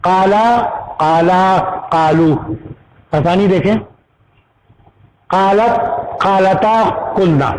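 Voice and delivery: measured verb drill, pausing after each form; grammar-class paradigm recital; conjugation recitation. Shown as a demonstration. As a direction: recite each Arabic form separately, endings drawn out. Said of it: "اب ادا کروں گا".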